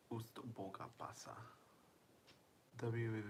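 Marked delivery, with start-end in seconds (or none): 0.1-1.4 whispered name. Pretend. Whispering the viewer's name again.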